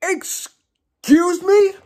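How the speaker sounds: high, very slow incredulous question; slow-motion shocked squeal; incredulous, drawn out. Real, not acted. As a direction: stretch each word in high disbelief. Repeats stunned reaction, stretched out.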